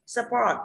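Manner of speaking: support drawn out slowly, weight on port; light start, then lean on the end of support; stress on second syllable. Shown as a demonstration. Teacher asks where the stress falls, support stressed on second syllable. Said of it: "các bạn đọc lên là support".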